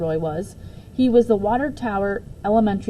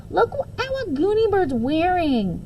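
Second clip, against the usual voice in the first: said loudly; 11 semitones higher, slower than usual. A narrator's reading. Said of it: "Barry said loudly".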